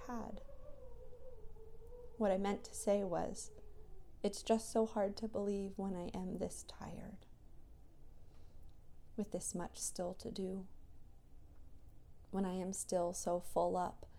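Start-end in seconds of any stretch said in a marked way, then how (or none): 4.2-10.7 whisper. Real, not acted. Whispered reflective voice memo.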